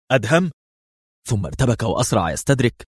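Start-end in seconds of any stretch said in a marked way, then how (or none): 0.1-0.5 higher-pitched startled query; a short exclamation rising at the end; exclaimed question. A narrator's reading. Qadri exclaims his friend's name, startled. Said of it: "هتف قدري".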